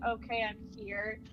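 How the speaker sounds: dazed murmur. Acted. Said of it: "touching her chest and her head, going".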